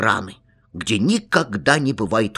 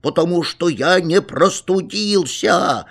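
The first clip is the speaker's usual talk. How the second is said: a higher mock cry with weight on я; insist, pitched up; shouting; 7 semitones higher than usual. A narrator's reading. Boy cries out again that he did not catch a cold, higher mock cry. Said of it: "опять крикнул я".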